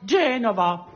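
Genova accentué sur le GE, à l'italienne; accent sur la première syllabe. Shown as a demonstration. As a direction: dire Genova avec l'accent tonique en tête. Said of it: "l'accent sur la première syllabe". (Genova, accent tonique sur la première syllabe)

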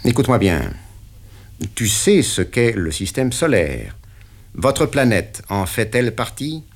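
the boss pinning down the deal; interrogating patron; stern boss. Acted. Patron tries again.

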